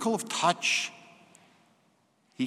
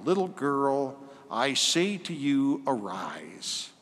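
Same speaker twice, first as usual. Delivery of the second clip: gentle command; 4 dB quieter, slower than usual. Acted. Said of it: "so gentle and beautiful on the ear".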